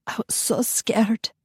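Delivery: soft, slow and shaken. Acted. Mother to her husband, shaken. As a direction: let the fright out softly.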